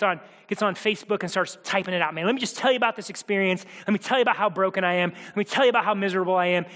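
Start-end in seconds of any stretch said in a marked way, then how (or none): 2.1-6.6 mock oversharing. Mocking oversharing on Facebook.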